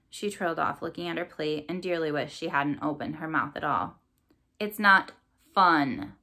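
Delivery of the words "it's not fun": louder, scornful sneer. Acted. Corvus to his daughter at dinner, louder scornful sneer. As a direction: spit the words with contempt. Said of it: "sneered Corvus".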